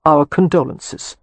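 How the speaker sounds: slow, deadpan; flat condolences. Acted. Cam receiving news of his father, flat. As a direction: say it without feeling. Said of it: "Cam said flatly".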